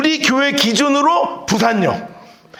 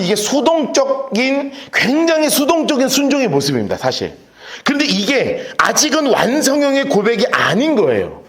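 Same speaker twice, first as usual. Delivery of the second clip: ordinary delivery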